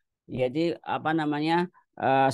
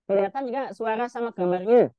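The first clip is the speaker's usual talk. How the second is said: glitchy robotic voice over a bad connection; choppy robotic video-call audio; 4 semitones higher, 7 dB louder than usual. Real, not acted. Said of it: "Suaranya kayak robot".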